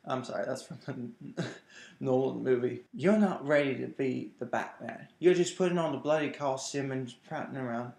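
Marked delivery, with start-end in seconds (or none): 2.9-7.9 lightly put-on English accent; Alfred. Butler scolding an unready Batman, light English accent. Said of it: "Okay, that's my English accent".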